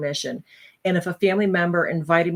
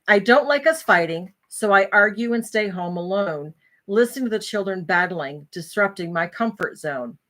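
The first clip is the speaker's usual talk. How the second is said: measured, rhymed verse recital; poem reading; 2 semitones higher than usual. Acted. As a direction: lightly recite your own poem. Resumes reading her poem.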